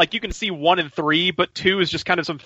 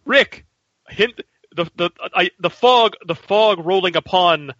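put-on old-fashioned formal speech. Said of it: "She's not that well spoken".

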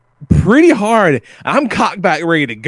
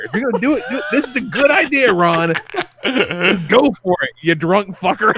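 higher-pitched egging-on through laughter; laughing encouragement; 5 semitones higher than usual. Retold or imitated. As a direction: goad him on while cracking up. Retells egging drunk man on, laughing.

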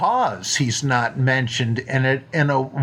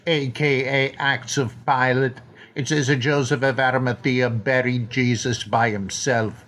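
put-on Welsh accent. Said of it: "my terrible Richard Burton imitation".

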